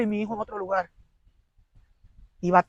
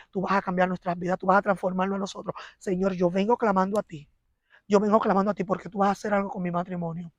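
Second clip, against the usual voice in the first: quoted prayer; 4 dB quieter than usual. Retold or imitated. Lightly voiced wife praying to God for her marriage. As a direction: pray it gently, asking God.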